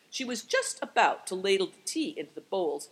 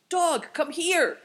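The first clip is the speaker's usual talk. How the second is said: high, loud, drawn-out call; slow, urgent calling cry; 11 semitones higher, 5 dB louder, slower than usual. A narrator's reading. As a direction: summon a dog from afar. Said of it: "they both cried together".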